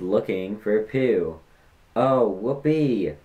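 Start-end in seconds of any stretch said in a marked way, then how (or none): 2.0-3.1 slow, dragged-out mock enthusiasm; sarcastic whoopee. Vlogger rolling his eyes at a first grade joke, slow sarcasm. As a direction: drag it out, deadpan sarcastic.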